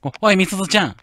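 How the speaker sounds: stammered shout. Acted. Shouting after Misuzu as she takes the car, stammered and alarmed. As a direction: stammer out a panicked call to stop her. Character tries to stop Misuzu.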